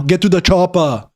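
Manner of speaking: exclaimed mock Austrian accent; thick Austrian action-hero catchphrase; Arnold Schwarzenegger. Streamer quotes a film star for chat, heavy Austrian accent.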